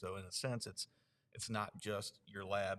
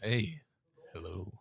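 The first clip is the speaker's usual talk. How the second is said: deep radio voice; 7 dB louder, slower than usual. Pretend. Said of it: "then you get that really deep radio voice".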